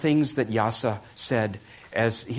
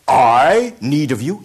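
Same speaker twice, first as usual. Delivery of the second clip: incredulous; 4 semitones higher, 11 dB louder, slower than usual. Acted. Robber astonished by the monk.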